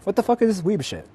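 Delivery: high, indignant yell at the screen; disgusted streamer cry; outraged. Real, not acted. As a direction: let the outrage jump up in pitch. Streamer outraged at gacha pull.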